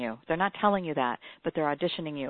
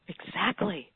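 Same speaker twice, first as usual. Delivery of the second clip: horrified gasp; slower than usual. Real, not acted. Host realising the wrong version aired, gasping slowly. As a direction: caught out, breathe it in shock. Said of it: "I was standing there horrified".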